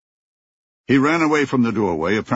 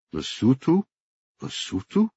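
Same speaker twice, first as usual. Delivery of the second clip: baffled disbelief; 5 semitones higher than usual. Acted. Baffled captive repeats country name.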